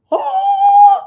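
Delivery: high loud mock wail; high wailing cry. Real, not acted. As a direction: wail it out like a lament. Recalling gaining thirty pounds.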